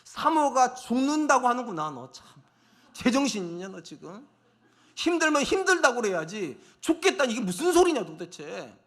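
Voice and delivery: exasperated telling-off, dropping to an aside; retold scolding. Husband retold scolding his exhausted wife.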